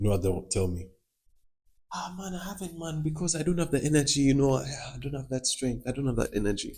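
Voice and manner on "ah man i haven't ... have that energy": play-acted, high, laid-on pleading for sympathy. Mocking people who skip the gym, imitate their sympathy-seeking excuse. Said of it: "they say it like as if I'm going to validate their stupidity".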